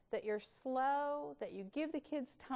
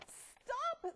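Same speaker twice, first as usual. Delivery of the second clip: high gurgling cry; gurgled stop. Acted. Pills in the bathwater gurgling stop. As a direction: gurgle it as you go under. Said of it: "they gurgled".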